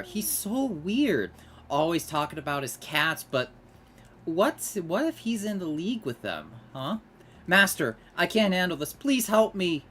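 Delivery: high whiny snobbish pleading; snobby Jimmy Neutron. Retold or imitated. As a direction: plead like a spoiled brat. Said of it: "she sounded like a snobby Jimmy Neutron".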